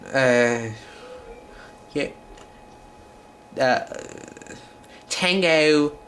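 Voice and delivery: Spanish lines in a put-on British accent; halting Spanish in a mock British accent. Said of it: "in my British accent".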